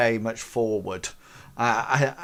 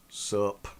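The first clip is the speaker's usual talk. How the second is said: put-on sullen teen grunt; 4 semitones lower, 5 dB quieter than usual. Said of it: "looks up and goes".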